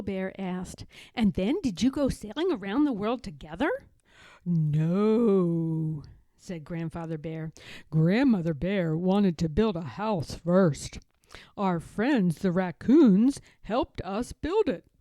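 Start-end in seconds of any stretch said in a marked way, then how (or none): 1.1-3.7 quick, eager cub asking; eager little bear. Acted. Little Bear asking his grandfather, fast and eager. 4.4-6.0 low, slow, louder grandpa bear voice; a gentle old bear showing an old photo; Grandfather Bear. Acted. Grandfather Bear showing his grandson a photo, fond old bear voice. 7.9-14.9 put-on a gentle old bear showing an old photo; Grandfather Bear. Grandfather Bear showing his grandson a photo, fond old bear voice.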